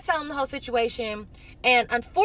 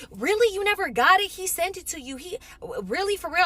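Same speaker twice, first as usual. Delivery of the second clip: mock shock; 7 semitones higher than usual. Friend fakes shock about money.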